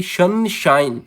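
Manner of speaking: सनशाइन with equal weight on सन and शाइन; stress on both syllables. Shown as a demonstration. Teacher giving a spondee example, सनशाइन evenly stressed. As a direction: press both halves of सनशाइन. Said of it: "इन दोनों को हम जोर दे के बोलेंगे".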